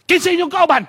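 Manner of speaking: spring the question to startle; teacher startling. Retold or imitated. Teacher interrogating. (kusog nga pangutana sa maestro)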